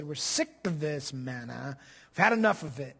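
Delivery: mock weary complaint, slowed down; complaining. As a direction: grumble like fed-up complainers. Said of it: "they complained".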